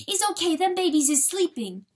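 loud, high, urgent assurance; crying out. A narrator's reading. Weasel assuring Papa about the babies, crying out. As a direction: call it out far too loudly. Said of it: "John Wesley cried too loud".

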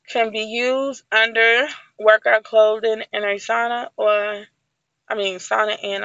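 talking while chewing "sauna" gum; words round a wad of gum. Real, not acted. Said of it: "I'm chewing this gum".

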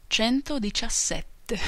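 slow answer with a snigger after it; sniggering old man. Acted. Old man sniggers the sum at the maltster, sniggering. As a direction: chuckle as you give the number. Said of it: "sogghignò un altro vecchio signore".

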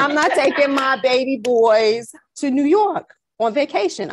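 insistent New Yorker voice; New York accent. Retold or imitated. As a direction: refuse like a protective New York mother. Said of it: "Y'all hear the accent".

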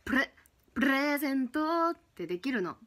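プレゼント with a rolled r. Shown as a demonstration. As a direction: trill the r in プレゼント.

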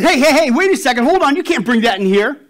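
loud, high-pitched acted halt; hammed-up gatekeeper calling a halt; urgent objection. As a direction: stop someone in their tracks, loudly. Gatekeeper halts man in joke.

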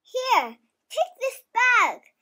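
put-on child's light goat voice; goat bleat. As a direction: pipe it up like a small goat. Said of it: "bleated the big frilly goat Fluff".

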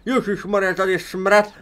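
disgusted. Real, not acted. Bad smell in room.

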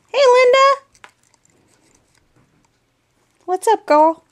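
high, loud, excited hello; real thrilled greeting. Real, not acted. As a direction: call out to a friend in high delight. Greeting friend's page excitedly.

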